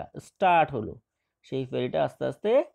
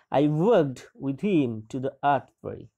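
slow reading aloud; much slower than usual. Shown as a demonstration. Teacher reads English text slowly.

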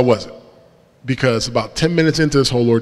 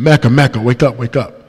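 retold scream; 5 dB louder than usual. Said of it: "someone screaming".

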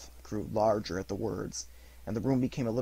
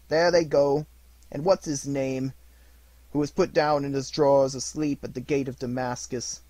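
high, loud, overjoyed rush of memories; between laughing and crying; 3 semitones higher, 7 dB louder than usual. A narrator's reading. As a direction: gush like a delighted child. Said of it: "voice between laughing and crying".

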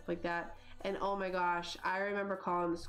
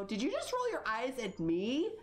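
retold affronted parent; 2 semitones higher than usual. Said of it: "I go".

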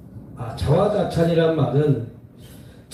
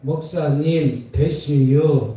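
slow, stretched Chungcheong dialect; Chungcheong accent; much slower than usual. Retold or imitated. Pastor imitating Chungcheong folk, slow Chungcheong accent. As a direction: drawl each word the Chungcheong way. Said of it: "충청도는".

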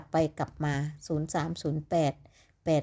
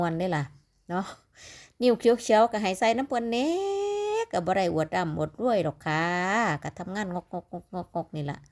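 chatty Isan Lao dialect, casual; พูดภาษาอีสานแบบเป็นกันเอง. Shown as a demonstration. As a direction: slip into easy Isan speech with the viewers. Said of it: "อยากเว้าลาวหลายๆ เว้าลาว".

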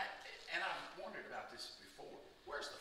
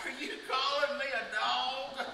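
high and loud, offended disbelief; indignant outrage; 8 semitones higher, 8 dB louder than usual. Retold or imitated. The mother answering Jesus's insult, indignant and loud. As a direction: bristle as if you were just called a dog. Voicing the insulted woman's reaction.

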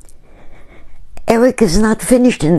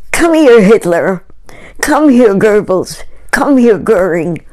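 yelling for dogs; 2 semitones higher than usual. Retold or imitated. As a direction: shout the dog names out like calling them home. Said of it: "he would yell".

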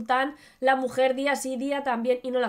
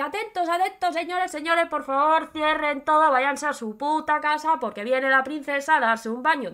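a hint of a crier, a little higher; town crier; 4 semitones higher than usual. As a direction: call out the announcement to the market. Town crier announcement in the market. (pregonero anunciando, algo más agudo)

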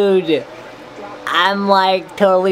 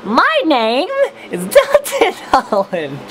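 helium voice; 6 semitones higher than usual. Real, not acted. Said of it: "I'm on helium".

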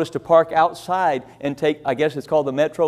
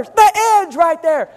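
lady scolding; 10 semitones higher, 5 dB louder, slower than usual. Retold or imitated. Lady scolding tourists at platform edge.

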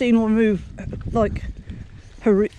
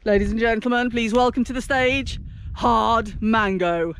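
lightly voiced compere, slowing on 'Hard Mango'; mock announcer; 4 semitones lower than usual. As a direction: introduce the band, stretching the name. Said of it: "That's a band name and a half".

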